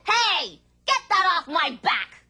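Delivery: grumpy rock. Acted. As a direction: shove the weight off with a protest. Rock complains to man.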